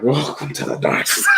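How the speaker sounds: lightly mock a brooding dark-side villain; Kylo Ren. Host mimics a film villain for the others, mock-ominous. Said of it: "that's how Kylo Ren moves".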